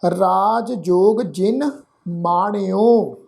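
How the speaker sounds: slow, measured Gurbani reading; scripture recitation. Shown as a demonstration. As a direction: recite in short phrases with drawn-out vowels. Teacher recites scripture for learners.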